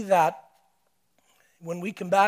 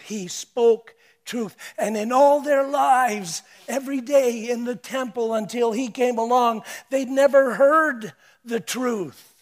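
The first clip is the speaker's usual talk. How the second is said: building emphasis; 5 dB louder than usual. Acted. Preacher building to climax.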